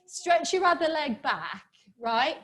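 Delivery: playful London accent, pitched a little up; lively mock-London lilt. Shown as a demonstration. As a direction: teach the move in a put-on London accent. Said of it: "I do love the London accent".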